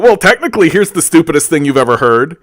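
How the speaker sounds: high, nasal-free smug quoting voice, jumps high then settles; mocking a smug contrarian with a squeaky pedant voice; mock know-it-all. Ranting podcaster mocks a pedantic know-it-all, squeaky mock voice. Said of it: "We love being this guy".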